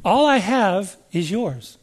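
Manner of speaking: "All I have is yours" said slowly, gently; slow and tender. Shown as a demonstration. Preacher slowly savoring the father's promise. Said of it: "Key on that word, those words".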